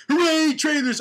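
high, loud hammed-up cheer; mock cheer. Old Terminator celebrating his trailer stunt, hammed-up cheer. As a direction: cheer like a cartoon hero.

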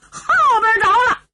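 high, projected cry from afar; shouted alarm. A narrator's reading. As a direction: call out the fire warning. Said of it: "又听有人喊了一声".

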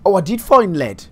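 high, startled joy; pleased surprise. Real, not acted. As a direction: yelp at the lucky find. Surprised find.

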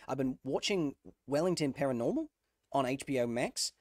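laughing into a New Zealand accent. Shown as a demonstration. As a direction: repeat it with a Kiwi lilt. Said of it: "some of that accent has been washing over me".

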